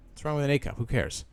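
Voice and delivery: ordinary delivery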